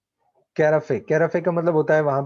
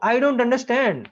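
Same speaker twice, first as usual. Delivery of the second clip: high, slow incredulous protest; outraged disbelief; 7 semitones higher, much slower than usual. Acted. Lomov protests to the father, high and slow in disbelief. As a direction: stretch out the disbelief.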